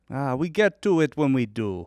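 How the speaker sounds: put-on Jamaican accent. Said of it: "if you're offended by my Jamaican accent".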